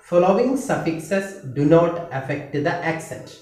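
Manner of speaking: each word spaced out very slowly for writing down; slow dictation. Shown as a demonstration. Teacher dictating the stress rule to students, slow and spaced. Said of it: "എഴുതേണ്ടത്".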